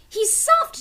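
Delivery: lightly voiced eager girl; a touch of a young sister; Annie's voice. A narrator's reading. Annie's lines voiced higher.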